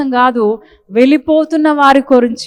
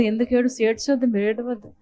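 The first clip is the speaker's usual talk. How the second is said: hushed comforting Jesus; 10 dB quieter than usual. Retold or imitated. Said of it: "అంటున్నాడు".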